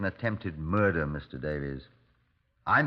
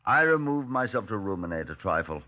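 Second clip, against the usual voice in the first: calm narrator's voice, reflecting; thoughtful detective narration; story narration. A narrator's reading. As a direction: tell it like a detective's memoir.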